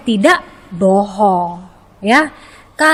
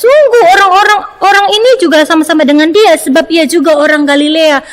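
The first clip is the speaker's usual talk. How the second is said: firm accusation; 3 semitones higher than usual. Retold or imitated. A bystander firmly accusing Peter, insistent. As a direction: state it as certain fact. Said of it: "berkata dengan tegas".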